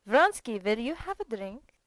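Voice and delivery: loud call. A narrator's reading. Petritsky calls to Vronsky.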